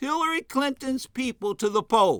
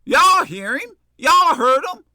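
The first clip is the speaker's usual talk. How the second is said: calling out; 5 semitones higher, 6 dB louder than usual. Real, not acted. Calls out to listeners after pause.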